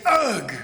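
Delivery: loud, abrupt mock code word; choked nonsense grunt. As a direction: blurt it out like someone choking. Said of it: "thinks that I'm choking or insane".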